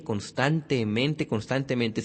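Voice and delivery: constantemente drawn out slowly, syllable by syllable; drilled repetition. Shown as a demonstration. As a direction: repeat constantemente like a steady drill. Repeats word to enact constant asking.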